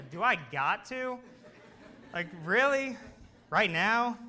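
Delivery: put-upon dog questioning an order; mock reluctance, rising on the protest; reluctant whine. Dog balking at owner's command, mock reluctant. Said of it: "He sighed, he said".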